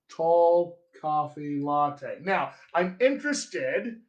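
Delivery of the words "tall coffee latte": TALL COFFEE LATTE slowly, 'aw' then two matching 'ah's; two-vowel General American. Shown as a demonstration. Coach repeating their own vowels, slow General American. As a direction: stretch each word of TALL COFFEE LATTE, coffee as 'cah-fee'. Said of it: "I only have two vowels here".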